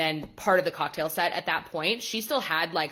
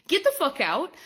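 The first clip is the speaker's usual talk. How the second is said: higher, louder, in a put-on voice; mock yell; 9 semitones higher, 4 dB louder than usual. Shown as a demonstration. Kicking out a rule breaker, mock angry yell. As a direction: throw them out with a mock shout. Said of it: "I will be like".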